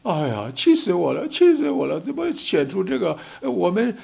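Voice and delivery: imitating a fuming voter, a sudden high cry on the second 气死我了; hammed-up outrage, sputtering and pitch jumping; a voter who can't believe who got elected, mock furious; exasperated citizen ranting. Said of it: "这样老百姓都在哭".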